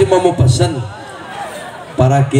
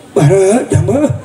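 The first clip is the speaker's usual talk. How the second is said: slow mock kiai; 3 semitones higher, slower than usual. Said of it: "Jadi kiai ngomong begini".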